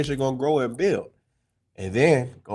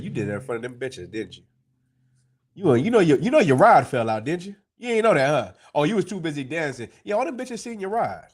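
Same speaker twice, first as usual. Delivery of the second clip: mocking. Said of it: "that's how she coming at the king".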